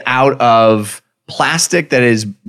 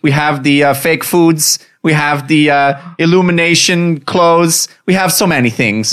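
put-on Dutch accent; 4 semitones higher than usual. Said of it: "This is the worst Dutch accent".

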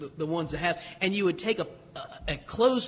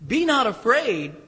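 emphatic command; 4 semitones higher, 5 dB louder than usual. Shown as a demonstration. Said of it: "emphatic closing command".

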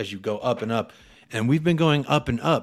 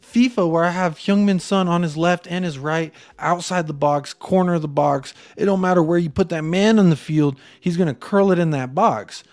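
excited retold rant; 6 semitones higher than usual. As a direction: hype it up like you can't believe it.

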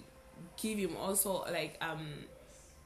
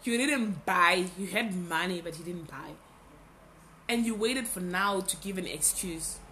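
nagging inner voice; 3 dB louder than usual. Retold or imitated. Scolding herself for putting off the podcast, stern inner voice. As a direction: scold yourself like a stern conscience. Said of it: "That voice was like".

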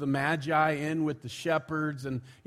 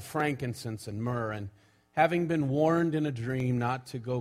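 scripture reading; 3 dB louder than usual. Acted. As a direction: read the passage out to the congregation. Reads Scripture aloud to congregation.

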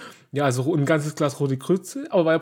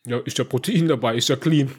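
self-justifying inner voice; 4 semitones lower than usual. Retold or imitated. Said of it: "weil ich denk mir dann so".

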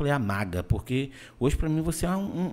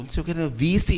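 put-on Paraíba accent; 5 semitones higher, 4 dB louder than usual. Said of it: "o cara chegou de lá e falou".

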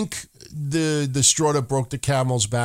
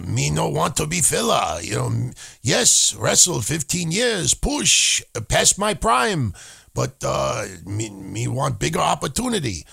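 mock Japanese accent. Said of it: "I sound like a Japanese Sin Cara".

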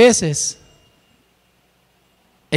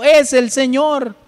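higher and slow, John realizing it's the Lord; joyful recognition; 6 semitones higher, slower than usual. Acted. Preacher voicing John spotting Jesus on shore, joyful. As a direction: let the recognition ring out slowly. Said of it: "Juan ... dijo".

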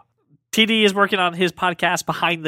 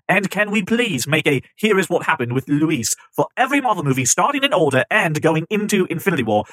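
a lightly put-on British accent; terrible British accent. Host reading a fan's review in a mild mock British accent. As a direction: read the listener's review in a hammy British accent. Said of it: "my terrible British accent of me reading".

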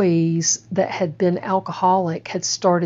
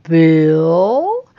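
a stunned, louder question; disbelieving gasp of a name; shocked recognition; 6 dB louder than usual. Retold or imitated. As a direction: say his name as it dawns on you.

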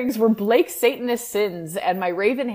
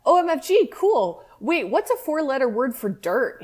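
sexy voice; 5 semitones higher than usual. Retold or imitated. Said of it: "he asked in his sexy voice".

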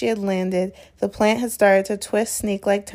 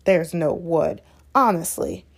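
mock imitation; 3 semitones lower than usual. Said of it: "Ron mocking Hermione's words".

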